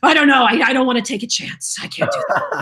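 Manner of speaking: hammed-up fretting that rises to a squeak; mock nervous refusal. Imitates friend's superstitious refusal.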